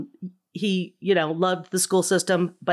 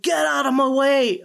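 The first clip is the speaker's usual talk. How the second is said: put-on loud, raised Boston accent in the car; 8 semitones higher, 5 dB louder than usual. Practicing a Boston accent alone in the car, loud Boston accent. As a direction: bark it like a Boston driver, in a Boston accent. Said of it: "practiced so hard for that Boston accent".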